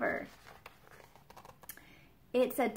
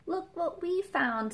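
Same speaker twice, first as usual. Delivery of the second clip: bright, high cry of discovery; excited call; 9 semitones higher, 3 dB louder than usual. Acted. Nell showing her friends the treasure, excited. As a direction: announce the find with glee. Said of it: "says Nell".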